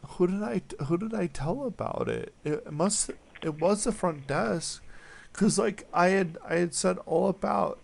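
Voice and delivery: upset, voice giving out; losing voice. Real, not acted. Upset caller apologizing to front desk, losing voice. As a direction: struggle to talk through being upset. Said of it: "I'm losing my voice".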